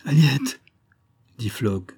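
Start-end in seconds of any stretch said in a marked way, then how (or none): 0.0-0.6 strangled voice. A narrator's reading. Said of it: "d'une voix étranglée".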